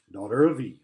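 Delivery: grave, solemn address; Aslan, grave. A narrator's reading. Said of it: "said Aslan in a graver voice".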